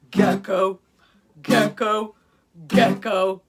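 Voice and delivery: loud chanted gecko cry; repeated loud gecko call. Acted. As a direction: call out the gecko's name like the lizard's croak. Gecko calling out at night.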